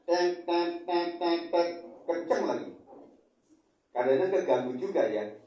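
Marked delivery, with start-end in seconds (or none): 0.0-1.7 high, sharp imitated turn-signal beeps; horn beeps. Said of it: "sennya bunyi".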